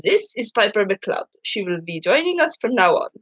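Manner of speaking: put-on an old German professor's accent. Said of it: "Beg my pardon on this accent".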